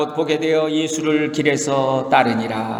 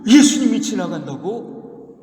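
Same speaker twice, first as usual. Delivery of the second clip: astonished; 4 semitones higher than usual. Acted. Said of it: "이렇게 이제 놀란 거예요".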